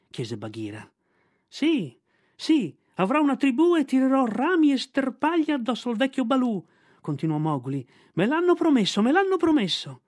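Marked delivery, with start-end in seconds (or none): 1.5-6.6 put-on high, loud bragging child voice; a boy showing off, bouncing with glee; excited cheeky boy. Mowgli's boasting child voice. 8.1-10.0 put-on high, loud bragging child voice; a boy showing off, bouncing with glee; excited cheeky boy. Mowgli insisting, childlike.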